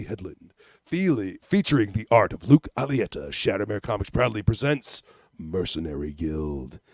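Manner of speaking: low, dramatic movie trailer narration; deep, booming epic promo read; announcer voice. Acted. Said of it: "I can try to do my announcer voice".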